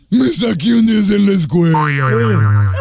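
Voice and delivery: put-on slow, proud little boy voice; mock seven-year-old showing off his grade; kid voice. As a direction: announce it like a kid bragging to mom. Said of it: "Así era, era así".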